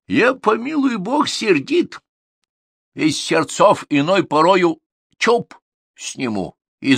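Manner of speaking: stern tsar. Acted. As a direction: lecture the servant like a hot-tempered king. Tsar lectures Ivan.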